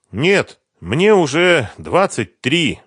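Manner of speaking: put-on young woman sighing over her age. A narrator's reading. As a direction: sigh out the years slowly. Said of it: "вздохнула она".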